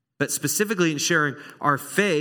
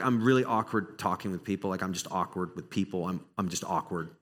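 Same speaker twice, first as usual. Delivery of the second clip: awkward mumble; 6 semitones lower, 5 dB quieter than usual. Pretend. Voicing an awkward person.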